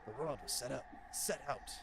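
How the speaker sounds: soft, lazy stoner voice; laid-back mellow stoner. Acted. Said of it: "giving him the fucking stoner voice".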